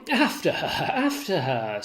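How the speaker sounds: shouted after her down the street; urgent call. Acted. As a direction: call out to send him chasing her. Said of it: "says Iago".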